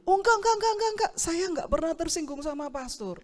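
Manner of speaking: high, quick protesting no's; young man hastily denying he's offended; flustered denial. Retold or imitated. Volunteer assuring the pastor he's not offended, high flustered denial.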